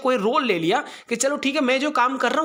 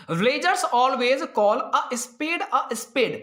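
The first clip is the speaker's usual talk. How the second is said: slow reading; much slower than usual. Shown as a demonstration. Teacher reads idiom sentence aloud.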